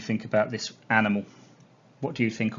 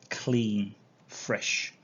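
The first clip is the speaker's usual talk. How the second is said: whispering. Shown as a demonstration. Teacher repeats the smell word.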